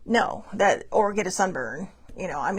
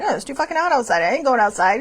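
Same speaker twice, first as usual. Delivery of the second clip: louder, laughing mock complaint; louder mock rant; 3 semitones higher, 6 dB louder than usual. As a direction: throw the line out with louder indignation. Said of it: "I'm like".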